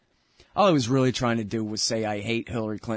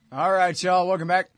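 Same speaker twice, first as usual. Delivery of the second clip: ordinary talk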